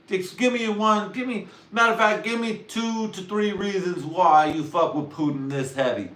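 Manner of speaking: mock outraged yell at a friend; exasperated yell. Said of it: "me, I'm like".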